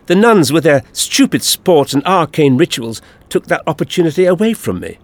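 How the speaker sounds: high, peevish character voice; agitated alien villain. A narrator's reading.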